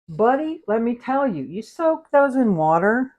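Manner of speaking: high, eager "buddy, let me tell you"; leaning in with a juicy tip; excited. Real, not acted. Cook telling viewers a walnut trick, high and excited.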